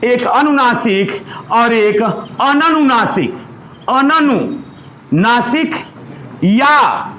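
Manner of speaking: अननुनासिक stretched out slowly, syllable by syllable; slow teaching delivery; slow dictation. Shown as a demonstration. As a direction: spell it out by sound for notes. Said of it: "लिख लीजिएगा".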